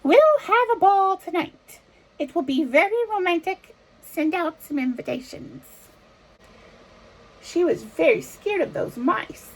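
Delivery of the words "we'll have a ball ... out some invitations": excited king. Acted. King's voice continues.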